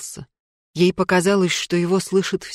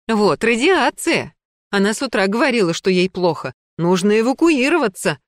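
agitated shout; 4 semitones higher than usual. Acted. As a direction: raise the alarm in a panic. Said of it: "кричала взволнованно".

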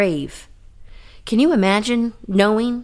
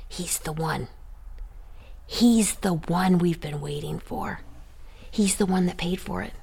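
hushed awe; 2 semitones lower, 9 dB quieter than usual. Acted. Believers in heaven welcome Christ, hushed, in reverent whispers. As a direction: breathe it out like holy wonder.

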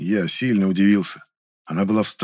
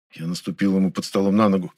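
plain reading voice

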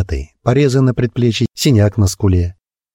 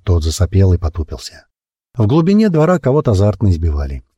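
usual speaking voice

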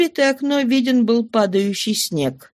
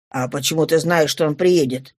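questioning father; 5 semitones lower than usual. Acted. Father questions his daughter.

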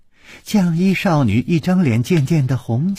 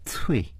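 spit; 7 dB quieter than usual. Acted. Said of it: "啐了一口说".

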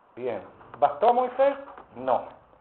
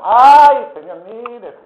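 cada "ay" chillado alto y fuerte, el resto lastimero; hermano quejumbroso; 4 semitones higher, 10 dB louder, slower than usual. Retold or imitated. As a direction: parodia a un hermano que se queja de todo. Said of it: "Me parece escuchar a varios hermanos". (imita a los hermanos quejosos con ayes exagerados)

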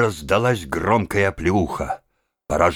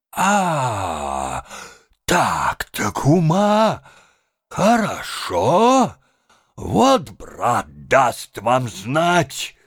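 threatening shout; 6 semitones higher, much slower than usual. A narrator's reading. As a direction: storm off swearing revenge. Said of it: "кричал он".

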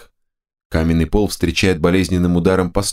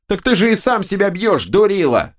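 two bickering giant voices; 12 semitones higher than usual. A narrator's reading. Right head mocks.

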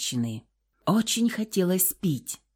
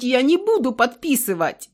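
desperate refusal; 6 semitones higher than usual. A narrator's reading. Karina refuses again.

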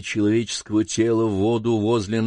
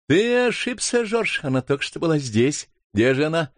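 higher, light mother's voice, a little surprised; a mother gently correcting her son; lightly voiced mother; 5 semitones higher than usual. Mother tells George he's mistaken, lightly voiced.

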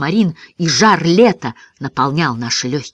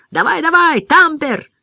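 high, excited cheering; urging cry; 11 semitones higher, 4 dB louder than usual. A narrator's reading. Ben urging his dog into the air, excited cry. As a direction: egg the dog on loudly. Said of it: "кричал ему Бен".

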